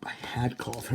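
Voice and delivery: talking through a yawn. Real, not acted. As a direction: yawn while you say it. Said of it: "Why am I yawning so much?".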